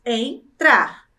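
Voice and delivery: "Entrar" in two separated beats; syllable by syllable. Shown as a demonstration. Teacher repeating two syllables after counting, clearly separated. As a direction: split "Entrar" with a clear gap. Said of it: "Uma, duas".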